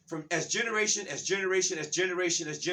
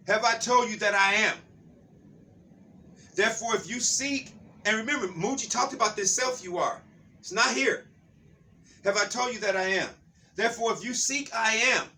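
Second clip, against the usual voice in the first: higher, emphatic preacher reading; scripture reading; 5 semitones higher, 4 dB louder than usual. Acted. Preacher reading scripture to listeners, emphatic and raised. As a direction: read the verse out with raised pitch.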